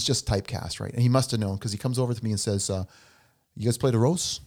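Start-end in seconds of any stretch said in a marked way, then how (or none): 3.6-4.4 lightly imitated mafia tough guy; mafia guy accent. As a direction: ask it like a movie mobster, lightly. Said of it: "he's got the accent".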